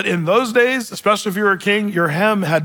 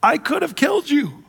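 shouted warning; 9 semitones higher, slower than usual. Retold or imitated. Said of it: "And David said".

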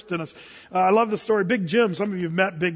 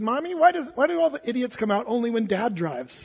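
put-on kid's voice; 2 semitones higher than usual. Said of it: "your kids ever said".

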